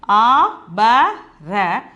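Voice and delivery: "A, ba, ra" as separate drawn-out syllables; letter by letter. Shown as a demonstration. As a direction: spell out "A, ba, ra", each letter on its own. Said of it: "but the pronunciation is what?".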